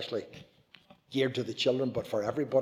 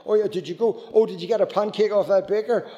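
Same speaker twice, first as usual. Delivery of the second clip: excited questions; 5 semitones higher than usual. Retold or imitated. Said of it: "And I'd say".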